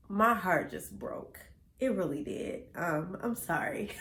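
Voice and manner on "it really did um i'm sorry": softer, close to tears; fighting tears after hearing a friend died; holding back tears. Real, not acted. Telling viewers about her friend's death, near tears. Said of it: "I'm gonna try not to cry".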